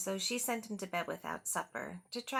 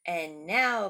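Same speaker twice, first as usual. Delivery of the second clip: loud excited call; cried out; 2 semitones lower, 11 dB louder than usual. Acted. Max cries out to the wild things, loud and excited. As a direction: call it out to start the party. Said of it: "cried Max".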